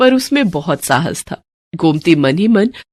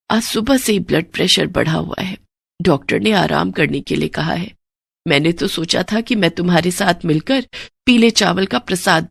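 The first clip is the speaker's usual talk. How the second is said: unwell mistress. Acted. Sick mistress tells Gomti to make the offering alone, weary. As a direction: sound worn out by illness.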